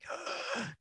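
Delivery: sharp audible intake of breath; panicked gasp. Acted. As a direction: gasp as if hit by a panic attack. Acts out his panic attack.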